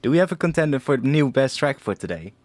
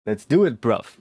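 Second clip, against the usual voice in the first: lightly put-on English accent. Streamer reading a chat message, in a mild English accent. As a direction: read it with a touch of English accent. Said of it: "with an English accent".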